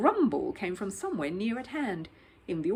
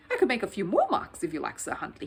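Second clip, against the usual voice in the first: hopeful; 3 dB louder than usual. Acted. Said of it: "he said hopefully".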